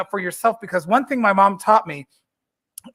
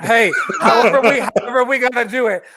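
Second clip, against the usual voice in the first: laughing; 3 dB louder than usual. Real, not acted. Laughing reply to promo plug.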